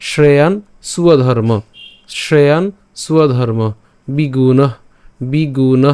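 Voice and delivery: স্বধর্ম as "suwa-dharma", each word set apart; বিগুণ ending in a breathed h; careful pronunciation drill. Shown as a demonstration. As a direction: model শ্রেয়ান, স্বধর্ম, বিগুণ word by word with pauses. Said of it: "তাহলে উচ্চারণটা কেমন হবে".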